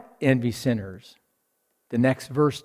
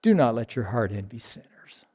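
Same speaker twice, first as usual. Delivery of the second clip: softer, lower quoting of "Do not let your heart envy sinners"; soft closing reading; 4 semitones lower, 5 dB quieter than usual. Shown as a demonstration. Preacher closing with the verse, softer. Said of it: "Don't let your heart have the rebel sigh".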